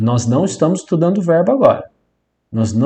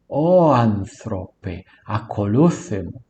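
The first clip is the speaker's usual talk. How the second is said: slow, stretched Greek vocative; calling a man; 4 semitones lower, much slower than usual. Shown as a demonstration. Teacher calling a man in Greek, slow drawn-out address. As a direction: call out "Ó anthrope" with long drawn vowels. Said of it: "Aqui eu estou chamando um homem".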